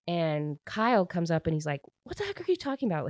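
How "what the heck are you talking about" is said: imitating an indignant cousin, sped-up and high; pissed-off outburst. Telling the story, she voices an angry Kyle in a high, fast mock outburst. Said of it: "Like, he's so pissed".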